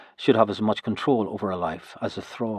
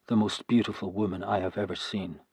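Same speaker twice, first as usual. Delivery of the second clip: soft, hushed inner voice; quiet private thought; 6 dB quieter than usual. A narrator's reading. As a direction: say it to yourself, awed. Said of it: "I thought".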